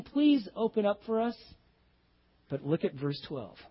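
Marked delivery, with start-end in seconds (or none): 0.0-1.4 pleading. Acted. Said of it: "they're pleading".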